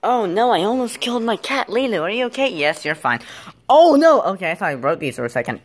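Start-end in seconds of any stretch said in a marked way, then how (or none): 0.0-2.5 high, worried fussing. Real, not acted. Owner checks on the cat, worried. Fears the cat was hurt. 3.7-4.2 loud, high "oh no"; alarmed cry. Real, not acted. Fears something broke, alarmed cry.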